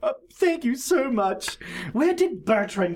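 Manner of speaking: Duchess voice. Acted. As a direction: call after her servant like a batty duchess.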